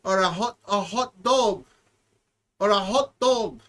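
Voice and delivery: lightly put-on Hispanic accent as Carlos; a hint of a Hispanic accent; mock Hispanic accent. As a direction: play a bad Hispanic character, lightly. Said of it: "bad Hispanic".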